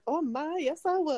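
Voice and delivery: high, giggly flustered gush; Harvey giddily admitting he asked her out; flustered, laughing. Retold or imitated. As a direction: gush through a laugh, caught out.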